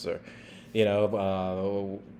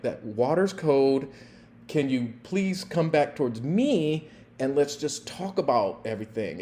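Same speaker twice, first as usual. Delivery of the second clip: gentle coaxing; 3 semitones higher than usual. Retold or imitated. Coaxing woman from water.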